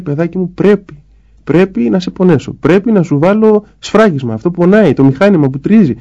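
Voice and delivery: put-on mother dentist to her crying child, soothing but firm; reassuring mother. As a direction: explain the pain gently but firmly, like a mother at the dentist's chair.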